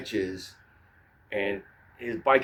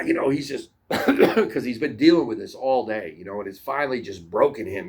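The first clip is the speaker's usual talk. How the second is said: ordinary delivery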